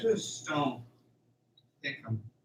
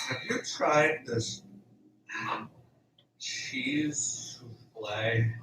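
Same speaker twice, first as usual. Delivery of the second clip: dreamy whisper; 2 semitones lower, slower than usual. Acted. Dazed Dave whispers about souffle.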